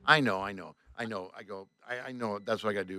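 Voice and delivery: low, subdued concession; retold sheepish agreement; resigned. Gives in to owner's advice.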